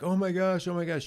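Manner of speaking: imitating a panicking parent; mock panic. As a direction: play the frantic mom. Panicking parent quoted in story.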